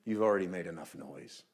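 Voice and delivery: firm command without shouting; emphatic boldness. Retold or imitated. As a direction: emphatically put a stop to it. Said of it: "There's an emphatic boldness in the Greek".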